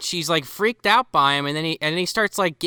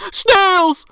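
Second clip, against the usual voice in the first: loud laughing exclamation; high laughing yelp; laughing shout; 6 dB louder than usual. Real, not acted. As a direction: blurt it through a laugh. Laughing punchline.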